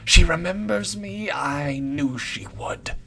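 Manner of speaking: high, loud crowing that slows and sinks; creepy delight, then a slow, knowing close; unsettling old woman. A narrator's reading. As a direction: announce it to an imaginary crowd. Brand voiced in story.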